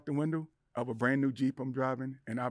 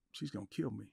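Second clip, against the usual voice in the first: hushed, softer inner thought; fearful thought; 4 semitones lower, 10 dB quieter than usual. Retold or imitated. Husband silently fearing his staring wife. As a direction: mutter it to yourself in dread. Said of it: "and I'm thinking".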